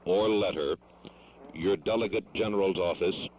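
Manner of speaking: deliberate, phrase by phrase with pauses. Real, not acted. Caller repeating the address to a foreign delegate, slowly. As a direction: spell it out patiently for a non-fluent listener. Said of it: "I will speak more slowly".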